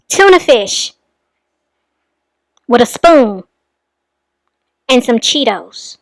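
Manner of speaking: halting, with long pauses between items; appalled disbelief. Real, not acted. Commentator reacting to a child's odd meal, appalled disbelief. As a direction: let each item sink in, disbelieving.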